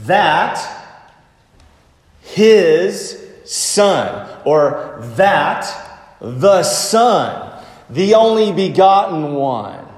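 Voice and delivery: slow, weighty stress landing on "Son"; emphatic, spaced-out "Son". Shown as a demonstration. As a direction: set "Son" apart with pauses and punch it. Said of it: "This is the emphasis".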